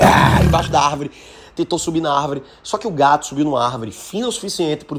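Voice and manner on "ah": a short mock roar at the tree; tiger growl. Tiger under the tree, mock roar. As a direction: bark out one growling ah like an angry tiger. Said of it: "ele começou a fazer".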